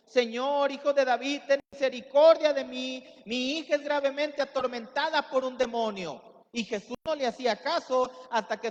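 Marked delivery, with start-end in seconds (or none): 0.1-6.2 loud desperate plea; crying out. Retold or imitated. Mother pleading with Jesus, loud desperate cry. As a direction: beg loudly for a tormented daughter. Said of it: "daba voces diciendo".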